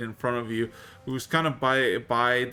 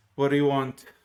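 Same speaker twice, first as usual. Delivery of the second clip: stern, strict, loud and clearly audible; 4 dB louder than usual. Voicing a woman who ignores the party: very strict, audible voice. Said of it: "proclaims with a very strict and audible voice".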